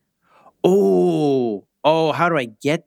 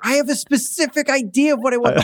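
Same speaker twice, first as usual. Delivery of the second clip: yelling; 9 semitones higher, faster than usual. Acted. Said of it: "and I wanna yell".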